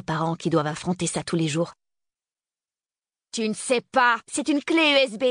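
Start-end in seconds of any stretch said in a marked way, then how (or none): 3.3-5.2 sharp, high-pitched interruption; cutting in. A narrator's reading. Girl interrupting the man about the key, cutting in sharply. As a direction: cut him off, pitch jumping up. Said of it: "le coupai-je".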